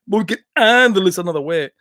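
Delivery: lightly voiced action hero with thick foreign vowels; Van Damme impression. Repeating the bar line for laughs, Van Damme impression. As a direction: imitate the movie tough guy's accent. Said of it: "He's like".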